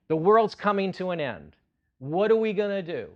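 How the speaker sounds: loud, high mock alarm; mock panic. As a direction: play up the doom, hammed. Mock panic of 2008 crisis.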